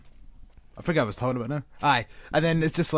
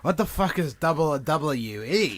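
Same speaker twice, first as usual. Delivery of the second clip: accidental Aussie twang, drawn out; slow, stretched Australian vowels; Australian accent; 2 semitones higher than usual. Acted. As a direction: slip into an Australian accent, slowly. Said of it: "Don't know why I was Australian there".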